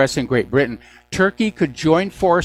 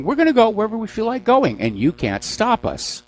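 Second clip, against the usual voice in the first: mocking military swagger; 8 semitones higher than usual. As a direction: play a cocky general brushing off the law. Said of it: "the military going on and saying".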